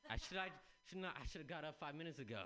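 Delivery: laughing through the words; giggling self-mockery. Real, not acted. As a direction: laugh at your own slowness. Laughing at himself.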